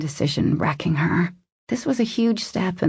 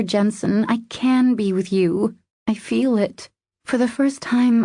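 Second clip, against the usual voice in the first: higher-pitched female lead, pleading; earnest, vulnerable woman; 4 semitones higher than usual. Acted. Woman wanting to be better for him, earnest. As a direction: confess hopefully, pitch lifted.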